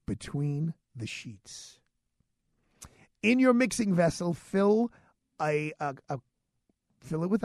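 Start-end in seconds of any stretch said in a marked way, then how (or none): 0.1-1.8 slow, soft teasing name; suggestive reveal. Acted. Announcing the cocktail to listeners, slow and suggestive. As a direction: let the risqué name hang.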